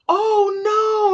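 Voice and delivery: high, loud mock dismay; horrified reaction. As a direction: imitate a friend aghast at the news. Retold friend hears of bleeding.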